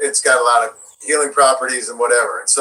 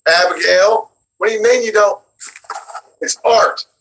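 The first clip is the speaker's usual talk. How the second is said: dead serious John; 5 semitones higher than usual. Retold or imitated. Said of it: "you're taking it so seriously".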